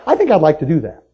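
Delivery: tentative, half-hearted wish; hesitant wish. Retold or imitated. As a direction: say it like you don't really mean it. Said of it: "No, no".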